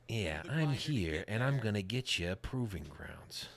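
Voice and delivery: slow, lightly voiced sitcom dad; Ray Romano. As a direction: drag it out in a mild mopey impression. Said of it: "my Ray Romano impression".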